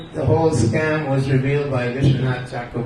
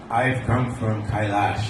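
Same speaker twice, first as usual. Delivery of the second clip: serpent voice; 4 semitones lower than usual. Acted. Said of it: "voice of a serpent".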